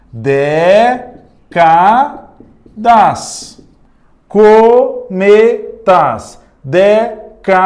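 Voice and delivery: décadas, cometas, décadas said slowly side by side; sounded-out comparison. Shown as a demonstration. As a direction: set the de of décadas against the co of cometas. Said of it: "palavra décadas". (comparando os sons de décadas e cometas)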